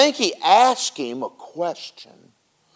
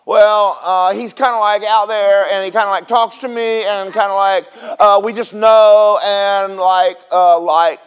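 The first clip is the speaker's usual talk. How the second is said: hammed-up stammering believer, louder; mock fumbling believer; 3 semitones higher, 4 dB louder than usual. Preacher mocking believers with no answer, mock fumbling. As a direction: stumble for words like a flustered believer. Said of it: "and we go".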